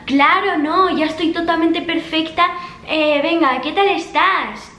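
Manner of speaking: sweetly fake, dripping with irony; sarcastic. Typing a reply to her cheating ex, sarcastic.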